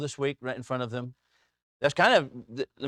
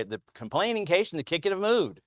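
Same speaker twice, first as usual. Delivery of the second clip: a lightly voiced lecturing professor, a little higher; mock professor; 5 semitones higher than usual. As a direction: recite it like a pompous grammar professor. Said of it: "I would have professors say".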